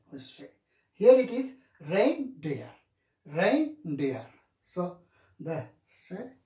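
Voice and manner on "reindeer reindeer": "reindeer" with "rein" high and "deer" low; high-low stress. Shown as a demonstration. Teacher showing students primary stress, high then low on "reindeer". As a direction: stress the first syllable of "reindeer", drop the second. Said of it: "high and this is low".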